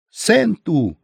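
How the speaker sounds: high-pitched mock squeal; shrill cry. A narrator's reading. Vadim calls a word at the captive, shrill and high. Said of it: "визгливо крикнул Вадим".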